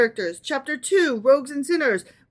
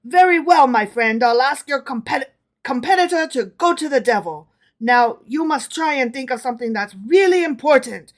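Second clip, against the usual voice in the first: louder, scornful and commanding; disdainful; 3 semitones higher, 5 dB louder than usual. Acted. Emperor grants the wish with loud disdain. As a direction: talk down to him with contempt. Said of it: "cried Napoleon disdainfully".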